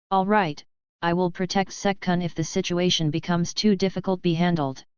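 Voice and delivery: flat, expressionless monotone. Acted. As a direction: keep it level, a monotone voice. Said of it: "said the girl in her monotone voice".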